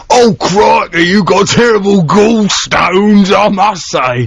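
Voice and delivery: high, drawn-out silly doctor voice; comic doctor. Acted. Doctor breaking bad news to a patient, in a high mock voice. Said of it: "if you went to see a doctor".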